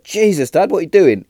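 high, loud shocked cry at dad; retelling his own stunned reaction to dad; high incredulous yelp; shocked disbelief. Retold or imitated. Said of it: "He was like".

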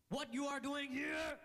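high, slow Eastern European customs officer, mock stern; Eastern European accent. Mocking the rude customs lady to the crowd, Eastern European accent. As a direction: mimic a curt Eastern European border agent, drawn out. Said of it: "the Eastern European customs lady".

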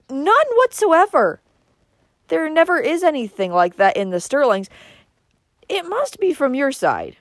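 high, loud angry tirade; indignant accusation. Acted. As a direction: hammer out the accusation, peaking high. Uncle rants accusingly at family.

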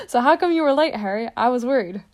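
big worried giant calling across the hall; full booming take of the giant's question; Hagrid's voice. Acted. Hagrid retakes the line.

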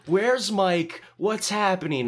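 high, loud comic confrontation; hammed-up demanding yell; mock angry demand. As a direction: fire off questions like an outraged camper. Imitates Billy confronting the counselor.

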